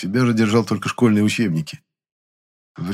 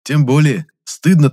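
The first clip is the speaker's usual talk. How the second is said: louder, slow, mock-stern reproach; 7 semitones higher, 7 dB louder than usual. A narrator's reading. Gennady teases Lizonka, mock-stern. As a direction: draw it out with mock shame.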